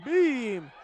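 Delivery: loud, high mock yell of the crowd with a laugh; laughing mock crowd shout; imitating crowd yell. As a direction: echo the crowd shouting it, amused. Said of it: "You hear some of the crowd saying".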